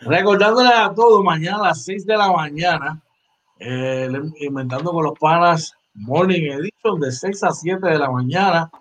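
upbeat radio plug for the morning show; promo read. Acted. Host reminding listeners of the morning show, announcer read.

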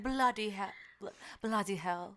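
mock British accent, Harry Potter style. Shown as a demonstration. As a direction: put on a movie-fan British accent. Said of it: "talk in a British accent".

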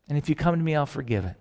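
a hushed, low offer of mercy; gentle forgiveness. Acted. God offering pardon to those who rebelled, soft and gentle.

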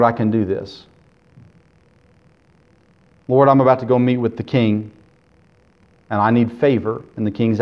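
heartfelt prayer, resolve easing into calm; earnest prayer. Acted. Voices Nehemiah praying before the king.

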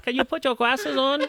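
high, laughing mock Asian accent; Asian accent demo. Shown as a demonstration. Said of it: "do an Asian accent".

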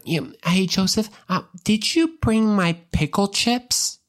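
high, slow, sing-song ask; craving Mary. Retold or imitated. Mary asking Joseph for her pickle chips, high and sing-song. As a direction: coax him like a craving wife. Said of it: "But she's like".

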